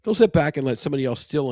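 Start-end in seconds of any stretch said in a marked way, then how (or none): 1.2-1.5 West Virginian accent on "steal"; Southern Ohioan accent. Real, not acted. Host owning up to how he says "steal", Southern Ohioan accent. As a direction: say "steal" with a Southern Ohio twang, close to "still". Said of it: "accent of a Southern Ohioan".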